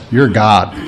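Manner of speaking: lightly voiced dog, low-pitched; a hint of a worshipful dog, dropped low; adoring dog. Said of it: "the dog looks at you and says".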